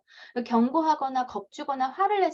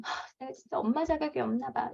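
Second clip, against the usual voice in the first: softer, a touch of defeated sighing; self-blaming sigh; 6 dB quieter than usual. Retold or imitated. Mom blaming herself after exploding, softly defeated. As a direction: sigh it out like a mom who feels she failed. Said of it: "여러분 이러실 게 아니라".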